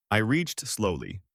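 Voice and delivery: "slowly" drawn out and slow; stress on slowly. A narrator's reading. Narrator stresses how carefully he moved: "slowly" stretched out. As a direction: lean on the word "slowly". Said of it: "emphasis on slowly".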